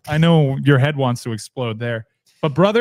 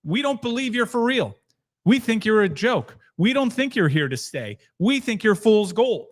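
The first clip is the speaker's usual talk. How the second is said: lightly voiced doubters, higher pitch; voicing skeptics; 6 semitones higher than usual. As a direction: put a touch of dismissive skepticism on it. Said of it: "a lot of the skepticism is".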